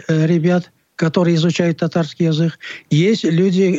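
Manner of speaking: ordinary delivery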